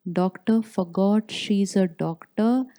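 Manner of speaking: ordinary talk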